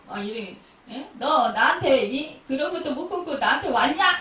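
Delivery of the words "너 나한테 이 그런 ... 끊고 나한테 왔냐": scolding God. Pretend. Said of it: "이러면서 야단치냐고요".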